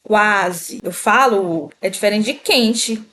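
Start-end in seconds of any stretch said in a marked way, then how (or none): 0.0-0.8 Quase carefully, with the U audible as "ku-a"; careful "kua-se" for Quase; slow, U sounded. Shown as a demonstration. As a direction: say Quase deliberately, voicing the U. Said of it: "Fala aí devagar também".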